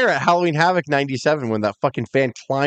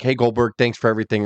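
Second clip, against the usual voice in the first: lower, low-key fan greeting; casual polite thanks; 4 semitones lower than usual. Retold or imitated. Fan briefly thanking a wrestler, casual and polite. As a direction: say it evenly and move along. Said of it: "I would just be like".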